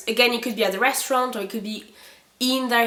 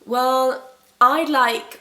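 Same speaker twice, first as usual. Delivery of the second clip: eager order; 3 semitones higher, 4 dB louder, much slower than usual. Shown as a demonstration. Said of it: "imagine you are at the restaurant".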